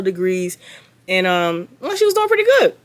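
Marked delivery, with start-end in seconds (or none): 1.8-2.8 sarcastic. Acted. Sarcastic remark on Brittany.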